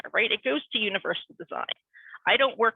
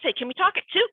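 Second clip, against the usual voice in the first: breezy manager voice; 9 semitones higher, 3 dB louder, faster than usual. Retold or imitated. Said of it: "She goes".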